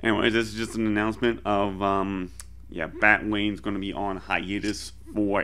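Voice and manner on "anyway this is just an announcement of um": talking through a swollen mouth. Real, not acted. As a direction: speak like just back from the dentist. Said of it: "so if I sound weird, it's because my mouth is swollen".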